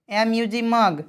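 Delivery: "मग" closed on a g sound, after its letters; final hard G. Shown as a demonstration. Teacher spelling an example, "मग" ending on hard g. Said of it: "तो हमेशा उच्चारण ग होता है".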